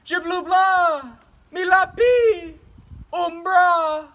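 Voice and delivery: loud high pleading with garbled French; desperate pleading. Real, not acted. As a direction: beg her to stay, near panic. Begging teacher not to leave.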